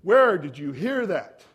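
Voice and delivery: slow, loud, imitated grilling; mock interrogator. Mom grilling Ralphie about a word, in mock interrogation. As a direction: demand it like a mom interrogating her son. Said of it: "like an interrogator".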